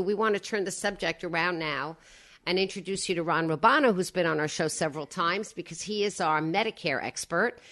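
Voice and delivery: husky, raspy morning voice; froggy throat after a bad night; hoarse voice. Real, not acted. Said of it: "You sound like Lauren Bacall".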